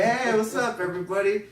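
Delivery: high, loud acted hello; calling out greeting. Greeting everybody at the party, high and loud. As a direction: call it across a party.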